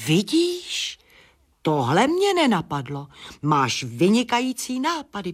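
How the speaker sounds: sudden high squeak, then eager. Acted. Bat squeaks, delighted by the foxglove's idea. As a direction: squeak the first word way up. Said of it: "pískl netopýr".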